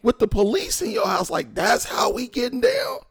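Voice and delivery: high, loud retold indignation; outraged disbelief. Son confronts father about police listening, retold outrage. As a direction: challenge him, voice leaping way up.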